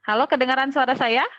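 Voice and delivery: glitchy dropouts between words; choppy breaking-up audio. Real, not acted. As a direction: voice cutting in and out over a bad call. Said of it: "Suaranya terputus-putus".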